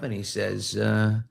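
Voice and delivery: usual speaking voice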